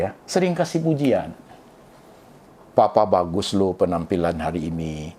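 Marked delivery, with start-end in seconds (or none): 2.7-5.1 low-pitched, tender praise; lightly played affectionate admiration; acted sweet compliment. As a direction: voice a spouse's gentle compliment. Acts a wife praising her husband.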